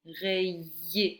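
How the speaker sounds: "Rayer" slowly split in two; syllable by syllable. Shown as a demonstration. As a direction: hold both syllables of "Rayer" for the listener. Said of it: "ye sur la deuxième syllabe".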